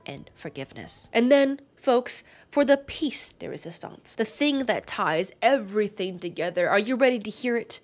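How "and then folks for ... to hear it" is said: showy build-up. Pretend. Builds up to the big reveal.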